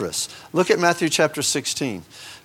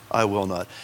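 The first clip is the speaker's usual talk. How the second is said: soft final vow; 7 semitones lower, 5 dB quieter than usual. Retold or imitated. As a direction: drop low and quiet on the last "I will not.". God's pledge repeated in Hosea.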